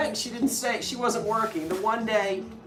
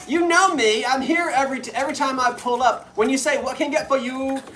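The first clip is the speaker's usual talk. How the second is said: exasperated; 6 semitones higher, 6 dB louder than usual. Retold or imitated. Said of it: "And I'm like".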